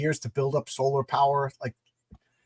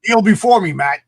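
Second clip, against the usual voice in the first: dark lord; 4 semitones higher, 10 dB louder than usual. Acted.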